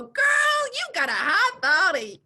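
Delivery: high, loud, gushing hype; excited hype. Retold or imitated. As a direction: cheer her on loudly. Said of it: "I'm gonna go".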